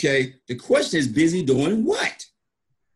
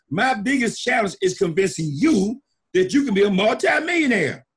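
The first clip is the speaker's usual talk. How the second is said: emphatic pitch; 4 semitones higher than usual. Real, not acted. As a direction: drive the point home to the crowd. Pitching to the audience.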